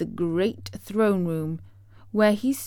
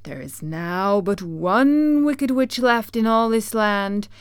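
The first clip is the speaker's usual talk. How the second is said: stern great head; 5 dB louder than usual. Acted.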